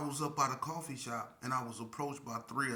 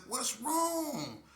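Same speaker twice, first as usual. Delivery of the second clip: innocent concern; 12 semitones higher than usual. Retold or imitated. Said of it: "I'm like".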